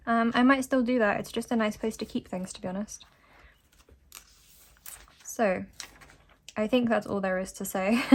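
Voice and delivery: breathless, struggling for air; talking through an asthma flare; short of breath. Real, not acted. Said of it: "I'm sorry if I sounded a bit short of breath".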